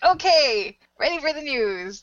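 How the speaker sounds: high-pitched pretend compliance; teasing imitation of an eager reply; mock eagerness. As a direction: play along with exaggerated readiness. Acting out co-hosts' eager reply.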